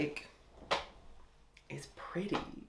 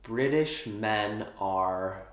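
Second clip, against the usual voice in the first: mock-dramatic cinematic proclamation; cinematic mode. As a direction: announce it like an epic film line. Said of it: "Put it in cinematic mode for this".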